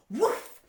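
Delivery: loud, high burst of "woof"; imitated whoosh. A narrator's reading. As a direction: burst it out like something shooting up. Sound of boy shooting up pipe.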